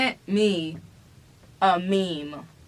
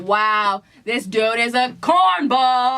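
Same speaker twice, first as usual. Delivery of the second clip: slow, dry mock-impressed quote; mock unimpressed; 2 semitones higher, 4 dB louder, slower than usual. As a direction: roll eyes at the cornball. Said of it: "I was smiling because I'm like".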